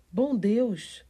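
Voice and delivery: loud, high cry of shock; alarmed exclamation. A narrator's reading. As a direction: exclaim it loudly, startled out of your wits. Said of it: "exclamou a pobre senhora Medlock".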